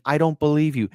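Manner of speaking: a mild retold demand, near plain; demanding, lightly voiced. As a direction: quote her demand without pushing. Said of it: "She is demanding".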